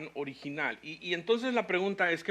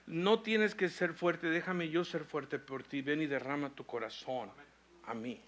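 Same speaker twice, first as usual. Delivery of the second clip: loving father fading to a hush; tender Father. Retold or imitated. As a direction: gently invite them to pour out their heart.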